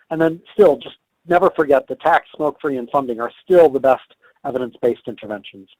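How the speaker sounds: losing voice, a bit hoarse; rough, worn-out speaking voice. Real, not acted. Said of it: "I apologize for losing my voice".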